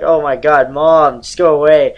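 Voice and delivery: put-on whiny teen. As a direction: whine it like an annoyed kid. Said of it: "I was like".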